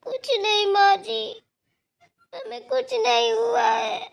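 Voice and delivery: slow, crying through the words; tearful denial. Acted. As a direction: hold back tears while insisting all is fine. Daughter-in-law denies trouble.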